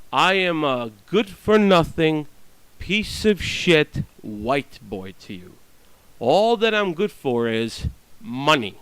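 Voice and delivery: slow, bitter mock self-description; bitter sarcasm. Snubbed neighbor mocks how he is seen, slow and sarcastic. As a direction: spell out the insult slowly, sarcastically.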